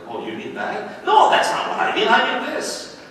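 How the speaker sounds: clueless therapist. Retold or imitated. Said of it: "they say something completely opposite".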